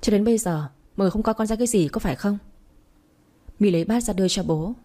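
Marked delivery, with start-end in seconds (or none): 0.0-2.4 brisk, annoyed complaint; mild irritation. Acted. Father grumbling to his family at dinner, mild irritation. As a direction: rattle off a grievance, only mildly heated. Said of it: "bố My khó chịu".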